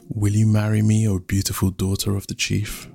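tender, level-toned marriage proposal; loving proposal. Acted. Rain proposing to the chief's daughter, lovingly. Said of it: "He looked her lovingly in the eyes".

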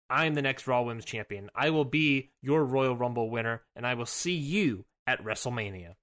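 put-on suave old film star promo in mid-Atlantic accent; overly formal mid-Atlantic accent read. Shown as a demonstration. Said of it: "it's my strange mid-Atlantic accent that's making this sound too formal".

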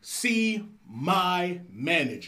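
slow, prim corporate email voice; passive-aggressive office politeness; politely impatient. Acted.

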